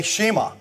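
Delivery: "shema" as SHEE-muh, redneck style; wrong pronunciation. Shown as a demonstration. Pastor warns against redneck "shema", SHEE-muh. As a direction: say "shema" with a long ee and a weak final uh. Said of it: "You can't say".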